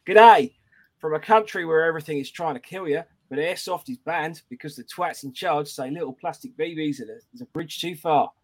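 hammed-up Aussie greeting into a review read; botched Australian accent; bad Australian accent. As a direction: read it in a shaky attempt at Australian. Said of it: "how shit he is at Australian accents".

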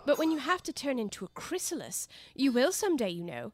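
put-on high, eager young girl; bright pleading girl voice. Alice voiced in story.

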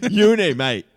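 put-on Aussie greeting; Australian accent. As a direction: hail them in a mock Australian accent. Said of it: "you have an interesting accent".

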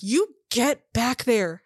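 high, exasperated acted rant; exasperated scolding. Woman storming back at her partner, acted high-pitched exasperation. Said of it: "The woman comes storming back out".

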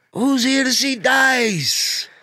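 high, slow, drawn-out pandering question; milk it for applause; hack crowd work. Retold or imitated. Comic quoting Dice's crowd line. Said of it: "he goes".

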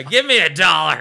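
loud, pushy demand for cash; hammed-up drunk stripper; mock demand. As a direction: shove the line at them.

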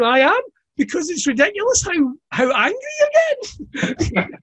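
lightly mocking the angry dad; amused reply. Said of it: "I went".

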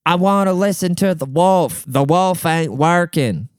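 high, dragged-out dopey whine; stupid customer voice. Acted. Customer telling the worker his radio fails, stupid mocking voice. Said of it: "like this in his stupid voice".

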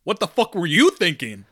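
glitchy robotic connection voice. Real, not acted. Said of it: "you are full on robot voice right now".

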